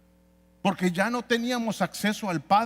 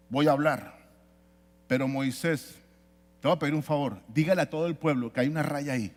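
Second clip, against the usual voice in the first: lower, measured voice of God; God addressing Moses; 3 semitones lower than usual. Acted. God instructs Moses about the line, lightly voiced in lower pitch.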